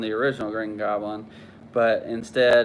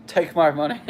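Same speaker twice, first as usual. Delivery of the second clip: high, louder mock Fry voice; Futurama meme; 6 semitones higher, 4 dB louder than usual. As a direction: bark it like the eager meme guy. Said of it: "Futurama, uh, meme".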